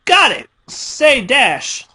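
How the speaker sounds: squealing with glee at a new toy; gleeful excitement. A narrator's reading. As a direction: burst out thrilled at the find. Pinkie finds the hacksaw.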